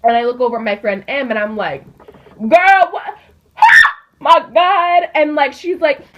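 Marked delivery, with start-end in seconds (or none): 2.4-5.1 high, loud laughing outburst; laughing disbelief. Retold or imitated. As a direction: laugh it out at the friend. Telling friend about the news.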